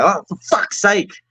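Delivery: exasperated Australian outburst. Retelling spilling something or burning a steak: imitating own Australian accent. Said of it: "that Australian comes out to me like".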